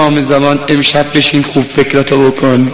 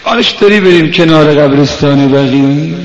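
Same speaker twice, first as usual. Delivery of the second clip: impassioned mourning appeal; 4 dB louder than usual. Real, not acted. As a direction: urge mourners towards tears. Preacher's emotional appeal before lament.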